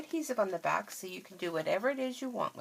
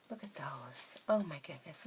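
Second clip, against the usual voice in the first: whispered admiration; 4 semitones lower, 8 dB quieter than usual. Real, not acted. Admiring the boots softly.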